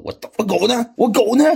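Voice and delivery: Superman storms in for his dog; demanding. Acted. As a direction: burst in and demand an answer. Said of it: "冲着卢瑟".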